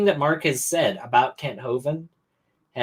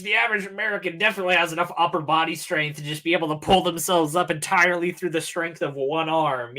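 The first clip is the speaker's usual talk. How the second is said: sarcastic; 4 semitones higher than usual. Acted. Sarcastic rebuttal of Ken's lifting method.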